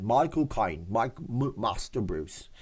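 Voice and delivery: halting mock Cockney, feeling for the sounds; badly faked London Cockney; attempted Cockney accent. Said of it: "talk like a Cockney Londoner accent".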